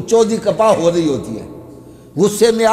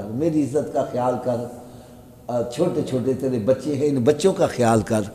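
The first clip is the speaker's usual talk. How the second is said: gentle coaxing husband; 5 semitones lower than usual. Retold or imitated. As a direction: coax her kindly, lightly voiced. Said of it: "ایک ٹیکہ سمجھانے کا لگاؤ".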